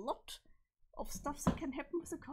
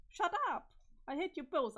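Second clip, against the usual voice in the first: angry shout; 4 semitones higher, 5 dB louder than usual. Acted. Character snaps at the other two.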